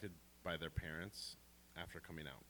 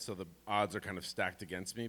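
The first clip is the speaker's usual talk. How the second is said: normal talking voice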